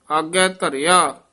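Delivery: "ਆਗੇ ਧਰਿਆ" closed with a rest; measured "ਆਗੇ ਧਰਿਆ" to a phrase end; full pause after. Shown as a demonstration. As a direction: finish on "ਧਰਿਆ", then stop. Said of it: "ਇੱਥੇ ਵਿਸਰਾਮ ਹੈ".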